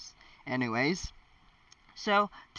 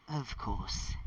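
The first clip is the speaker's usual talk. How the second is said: softer, sighed-out reply; resigned sigh; 8 dB quieter than usual. A narrator's reading. Harry giving in to Hermione's catch, sighing. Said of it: "Harry sighed".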